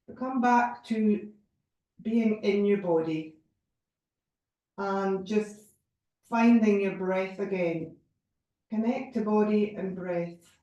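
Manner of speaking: unhurried meditation guide, pausing between phrases; measured yoga relaxation voice; guided meditation. Real, not acted. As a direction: gently lead them back to the breath. Leads breath awareness meditation.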